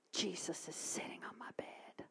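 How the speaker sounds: near-whispered reveal; very soft, hushed awe; awed hush. Real, not acted. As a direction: drop to a breath of wonder.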